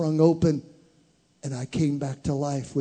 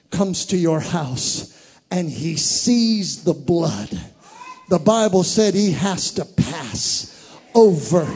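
much higher and louder, slow climax; full-force preaching; 6 semitones higher, 12 dB louder, slower than usual. Real, not acted. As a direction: lift it to a shouting peak.

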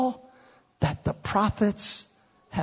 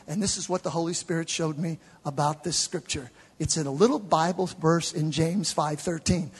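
ordinary delivery

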